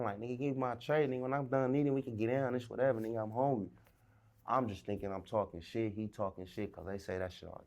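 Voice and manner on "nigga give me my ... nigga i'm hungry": deputy offers to fight, he raises voice for tray; raised retort. Retold or imitated. Hungry and defiant, half-shouting. Retold jailhouse argument with deputy.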